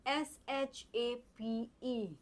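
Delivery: एस एच ए पी ई spelled very slowly; slow spelling. Shown as a demonstration. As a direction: drag each letter out for the child. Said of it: "teacher spells letters slowly". (बहुत धीरे अक्षर बोलना)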